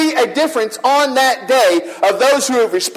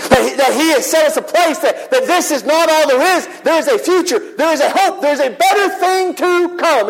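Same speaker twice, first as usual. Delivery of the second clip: climbing higher, building to a hopeful peak; rising excitement; 5 semitones higher than usual. Real, not acted. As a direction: lift them with mounting hope. Preacher building to climax.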